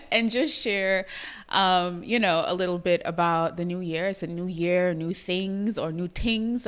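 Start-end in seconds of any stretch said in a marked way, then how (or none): 5.9-6.7 "tings" with a Trinidadian hard t; light Trinidadian lilt on "tings"; Trinidadian accent. Shown as a demonstration. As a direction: say "tings" for things, Trinidadian style. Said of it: "as I should say in my Trinidadian accent".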